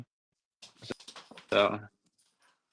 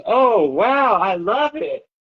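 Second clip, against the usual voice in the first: put-on high, thrilled kid voice; child's delight; 9 semitones higher, much slower than usual. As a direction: squeal with joy like a little girl. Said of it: "she goes".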